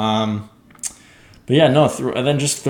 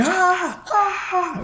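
very high mock screams at normal volume. Podcaster mimicking two fighters' scream match, high restrained screams. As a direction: imitate two screamers in falsetto, holding back the volume. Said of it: "they just had this scream match".

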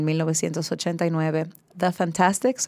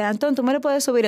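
quoted singer's request; 7 semitones higher than usual. Retold or imitated. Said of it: "le dice".

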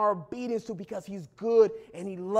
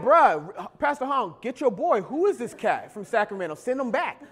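mock congregation protest. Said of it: "Y'all would be like".

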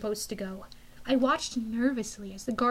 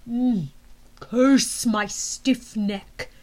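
menacing general; 3 dB louder, much slower than usual. Acted. General groaning.

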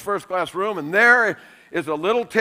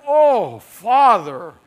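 laughing prayer; 4 semitones higher, slower than usual. Retold or imitated. Praying over bad soup.

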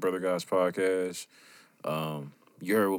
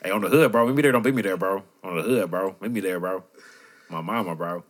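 louder mock California accent; 5 dB louder than usual. Hosts plugging their event, put-on California accent. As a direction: lean into a put-on West Coast accent. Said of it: "without breaking character".

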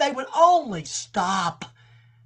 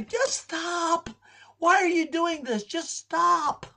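raised, strained begging; pleading with someone; 7 semitones higher, slower than usual. Retold or imitated. Believer pleading with a straying friend, high strained plea. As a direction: beg a loved one to quit. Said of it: "How many of you have told somebody".

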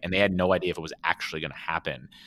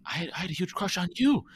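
mock confession; 12 semitones higher than usual. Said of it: "when he's like".

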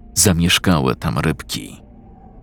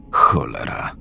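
muttered curse; 6 semitones lower than usual. Acted. Dazed man wakes in pain.

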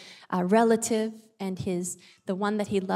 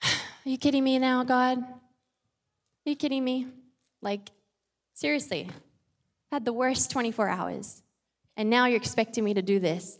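exasperated complaint. Retold or imitated. Voicing Jesus complaining to God.

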